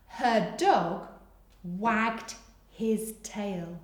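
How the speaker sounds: very slow repeat; again slowly for writers; slow dictation repeat. Shown as a demonstration. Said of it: "Pause whilst you finish".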